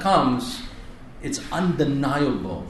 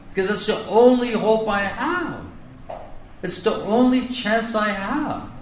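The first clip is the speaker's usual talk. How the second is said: pleading prayer; 3 semitones higher than usual. Pretend. Quoted prayer begging Nitai.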